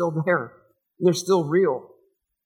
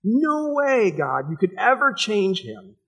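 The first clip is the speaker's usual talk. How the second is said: scoffing disbelief; 5 semitones higher, slower than usual. Retold or imitated. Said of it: "We don't think God works".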